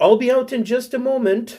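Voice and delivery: high, fake digital female text-to-speech voice. Describing what a digital voice says when you arrive, in a TikTok fake female voice. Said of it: "it sounds like a fake female voice".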